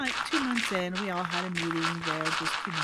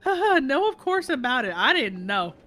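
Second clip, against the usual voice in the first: sarcastic; 6 semitones higher, 8 dB louder than usual. Retold or imitated. Sarcastic reply to teacher.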